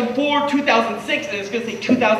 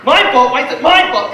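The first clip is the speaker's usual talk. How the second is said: dad's protest; 2 semitones higher, 5 dB louder than usual. Retold or imitated. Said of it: "My dad's like".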